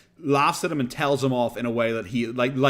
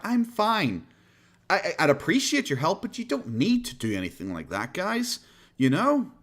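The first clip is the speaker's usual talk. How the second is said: mock parasocial sincerity. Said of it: "being very parasocial".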